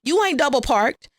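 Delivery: acted-out scolding with rising impatience; mock telling-off. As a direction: go off on someone, playfully imitated. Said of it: "So he goes off on her".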